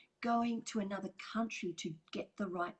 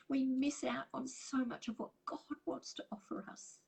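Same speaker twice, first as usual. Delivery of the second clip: teary; 5 semitones higher than usual. Real, not acted. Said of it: "Sorry, I'm getting teary".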